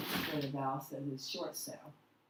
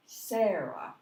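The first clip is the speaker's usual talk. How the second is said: first syllable of Sarah longer, louder, higher; stress on first syllable; 3 semitones higher, 6 dB louder than usual. Shown as a demonstration. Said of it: "name is said louder, longer, and higher".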